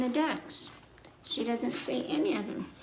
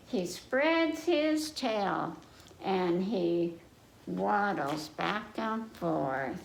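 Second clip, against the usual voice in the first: sing-song nursery rhyme reading; children's rhyme; 2 semitones lower, much slower than usual. Acted. Reader reciting to young listeners, sing-song rhyme.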